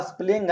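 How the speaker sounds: "स्पेलिंग" misread as "a-spleng"; misread spelling. Shown as a demonstration. Teacher showing students a wrong reading, "स्पेलिंग" said "a-spleng". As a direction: squash स्पेलिंग into "a-spleng", first vowel dropped after the p. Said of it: "आप गलत पढ़ रहे हैं".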